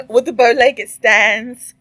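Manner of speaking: words pushed out through real laughter; giggling at the picture while describing it; laughing. Real, not acted. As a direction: laugh your way through the line. Laughing at a photo.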